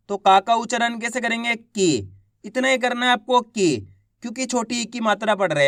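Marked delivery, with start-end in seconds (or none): 1.5-2.1 "की" with the vowel held briefly; short i vowel. Shown as a demonstration. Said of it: "कम खींच के पढ़ा जाता है". 3.4-3.8 "की" with a brief, unstretched i; short i vowel. Shown as a demonstration. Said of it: "कम खींच के पढ़ा जाता है".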